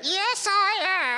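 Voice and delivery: low, gruff voice; deep dummy voice. Shown as a demonstration. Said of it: "we've gotta find you a voice".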